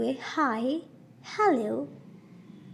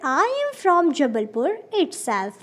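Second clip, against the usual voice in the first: slow model sentence; 3 semitones higher, 3 dB louder, much slower than usual. Shown as a demonstration. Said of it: "या फिर".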